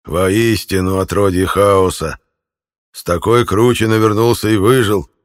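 put-on slow, loud sneering old man; a spiteful old man jeering; creaky old man voice. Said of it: "скрипучий старческий голос".

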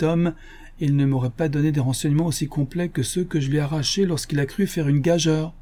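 a touch of self-satisfaction; detective explaining his trick with relish; lightly voiced pleased detective.

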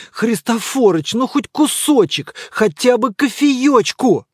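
pleading mumble. A narrator's reading. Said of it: "бубнил Добродеев".

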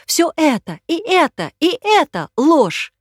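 high, loud, slow accusation; woman denouncing the lies, furious; furious and scared. Acted. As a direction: rage through fear. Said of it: "яростным, испуганным".

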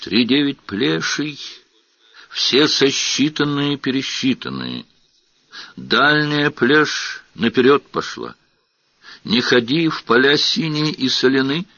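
falsetto squeal. Acted. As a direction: shriek it in a falsetto. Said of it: "вдруг заверещал фальцетом".

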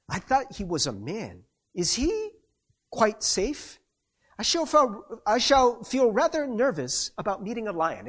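put-on terrible British accent. Susan asking about meeting a lion, in mock British. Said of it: "that's my terrible British accent".

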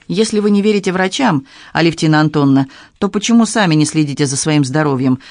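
ordinary delivery, nothing marked

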